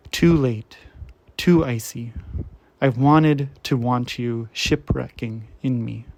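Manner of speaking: measured poetry recital, firm attack easing off; poem reading. Acted. Reader sharing a beloved poet's work, measured poem recital. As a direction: read each image out with deliberate pauses.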